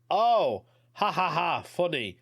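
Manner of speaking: a high, loud fake laugh that fades to dry; mock laugh. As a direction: brush him off with a put-on chuckle. Caller laughing off his denial.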